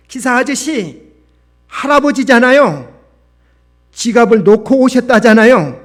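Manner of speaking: put-on high, loud girl's protest; loud scolding. A narrator's reading. Schoolgirl scolding the bus driver for an old man, loud scolding. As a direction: tell him off at full voice, pitched high. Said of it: "큰 소리로 호통을 치고".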